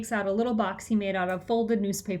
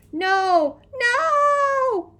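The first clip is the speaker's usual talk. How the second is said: high, drawn-out frantic screams; screamed refusal; 7 dB louder than usual. A narrator's reading. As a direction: scream it in protest, rising higher. Frantic refusal, then pouncing on rival.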